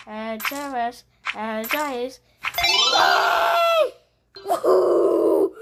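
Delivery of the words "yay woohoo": high, loud yay; happy cheer. Real, not acted. Child celebrating in a game, cheering high. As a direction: cheer with delight.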